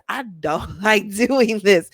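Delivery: slow, laughing through the words; a chuckling groan about commuting; mock whiny, half laughing; laughing complaint. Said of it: "you realize".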